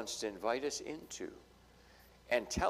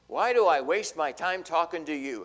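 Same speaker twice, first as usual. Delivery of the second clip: exasperated; 7 dB louder than usual. Retold or imitated. Exasperated speaker quoted.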